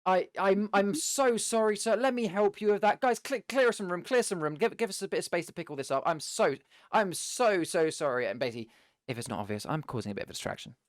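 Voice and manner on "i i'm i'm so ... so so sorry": high, theatrical flustered pleading; over-the-top apology. Acted. Clumsy adventurer clearing room round the fallen orc, over the top. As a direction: play up the apology and call to the crowd. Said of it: "with a very over the top voice".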